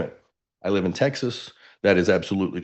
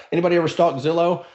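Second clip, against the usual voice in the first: teasing question; 8 semitones higher, faster than usual. Real, not acted. Teasing the room about Zillow.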